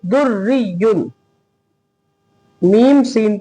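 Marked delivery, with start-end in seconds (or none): 0.1-1.1 "दुर री युन" with a light r on "री"; thin ra. Shown as a demonstration. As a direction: show the fine r in "री", vowel held. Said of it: "बारीक".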